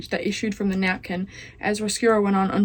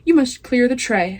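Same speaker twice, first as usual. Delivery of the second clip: shouting; 3 semitones higher, 4 dB louder than usual. Acted. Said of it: "shouted Cook".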